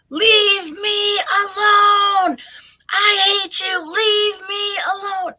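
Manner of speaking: high, loud, drawn-out furious screaming. Retold or imitated. Mom with dementia screaming at her granddaughter, screaming. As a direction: scream it at the top of your lungs. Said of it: "my mom is screaming at the top of her lungs".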